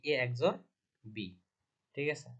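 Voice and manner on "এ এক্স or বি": "এ" alone, then "এক্স or বি" said as "eks-or bi"; শিক্ষকের মতো "এ এক্স or বি" উচ্চারণ; spelling out the name. Shown as a demonstration. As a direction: model "এ এক্স or বি" for students, letter by letter. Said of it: "এটার উচ্চারণটা কি?".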